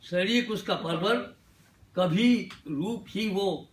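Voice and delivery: measured Urdu verse with dramatic pauses; mushaira-style poetry delivery; ghazal recitation. Acted. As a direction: recite the couplet phrase by phrase, letting each land. Recites Urdu ghazal couplets to audience.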